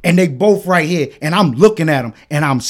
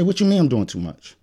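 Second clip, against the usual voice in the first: calm; 6 dB quieter than usual. Retold or imitated. Asking why he's doing too much, calm voice. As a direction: ask it softly, keeping calm. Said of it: "I'm calm voice".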